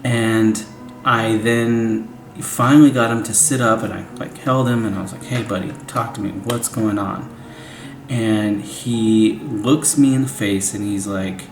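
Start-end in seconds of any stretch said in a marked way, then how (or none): 5.2-7.3 gentle coaxing. Retold or imitated. Holding crying son.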